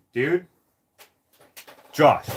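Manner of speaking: loud call of his name. Retold or imitated. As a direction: shout "Josh" to wake him. Brother calling him, alarmed.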